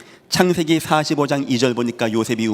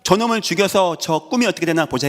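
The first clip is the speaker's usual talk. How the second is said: higher, sneering brothers' taunt; mocking brothers; 5 semitones higher than usual. Brothers taunting Joseph, higher sneering taunt. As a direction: jeer at the dreamer brother. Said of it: "그것 때문에 형들이".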